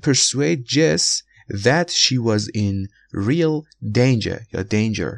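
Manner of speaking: slow, danger offered two ways; slow example reading. Shown as a demonstration. Teacher finishes the Jess example slowly. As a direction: read it out slowly. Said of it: "مثال بعدی".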